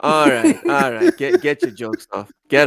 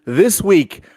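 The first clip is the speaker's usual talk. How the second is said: upbeat announcer read, stretching the special guest build-up; hyped-up show intro; podcast host intro. Acted. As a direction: open the show like an eager host.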